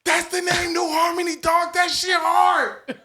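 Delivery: thrilled by the perfect name; triumphant whisper. Retold or imitated. Excited about band name in class.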